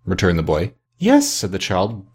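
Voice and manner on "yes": put-on very high, gleeful child's cry; brimful of glee. A narrator's reading. Little girl answering her big brother, brimful of glee. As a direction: burst out high and delighted. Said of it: "brimful of glee".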